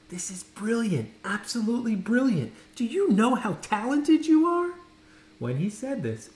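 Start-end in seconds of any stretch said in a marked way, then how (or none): 0.1-4.7 whisper. A narrator's reading.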